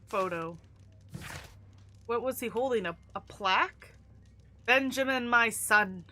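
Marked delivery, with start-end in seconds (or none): 4.6-6.0 put-on Irish accent. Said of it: "I don't know why I'm doing Irish".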